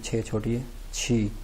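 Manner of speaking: छी sounded out slowly; slow qi demo. Shown as a demonstration. Teacher slowly showing students how to say छी. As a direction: say छी slowly and clearly. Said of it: "क्यू को pronounce करते हैं छी".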